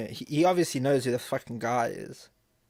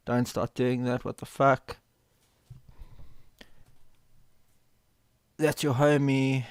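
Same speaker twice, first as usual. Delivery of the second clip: heated reading; 2 semitones higher, 3 dB louder than usual. Acted. Streamer voicing the woman's angry texts to chat, heated mock anger. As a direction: read it like you're the one accusing.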